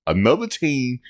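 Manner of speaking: high, amused mock coach voice; laughing mock quote; imitating a coach. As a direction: mimic the coach's line while cracking up. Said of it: "He said".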